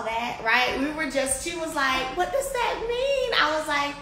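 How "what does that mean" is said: high-pitched astonished question; retold amazement. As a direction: imitate her wonder, pitch soaring. Retelling friend's amazed question.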